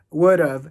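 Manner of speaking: would of with the d tapped like an r; flap d. Shown as a demonstration. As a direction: say "would of" as "wer-of". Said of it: "hacemos una R y luego of".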